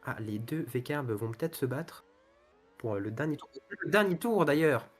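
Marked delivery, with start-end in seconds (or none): 3.5-4.9 excited. Real, not acted. Announcing the final lap.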